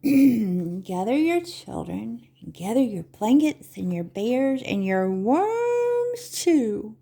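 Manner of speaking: put-on slow sing-song poem for children; Begrüßungsreim. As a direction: chant the rhyme, stretching the key words. Recites their little gathering poem.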